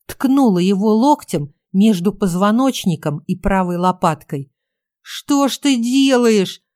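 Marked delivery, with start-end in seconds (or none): 5.0-6.6 higher, slow, pained whimper squeezed out; strangled whimper. A narrator's reading. Photographer elbowed in the back, whimpering strangled. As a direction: whine it through a tight throat in pain. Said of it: "проскулил он сдавленным голосом".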